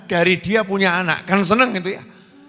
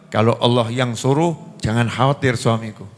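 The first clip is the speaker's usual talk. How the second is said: sincere acceptance; 6 semitones lower than usual. Acted. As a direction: reassure him gently that God will provide. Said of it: "kalimatnya sama, tapi nadanya beda".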